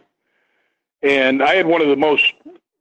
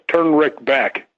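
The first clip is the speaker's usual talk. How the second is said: man's voice; slower than usual. Retold or imitated. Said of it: "you hear a man's voice go".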